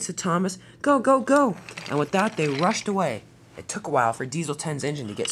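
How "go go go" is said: high, loud urging; rapid-fire urgent command. Acted. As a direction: spur them on to flee. Thomas urges escape from Diesel.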